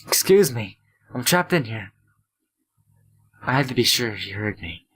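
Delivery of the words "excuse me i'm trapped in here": desperate call for help, louder; louder shout. Acted. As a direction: shout it again, harder. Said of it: "I shouted again".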